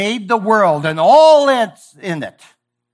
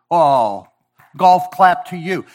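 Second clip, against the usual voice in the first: sarcastic; slower than usual. Shown as a demonstration. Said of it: "a time and place to talk like that".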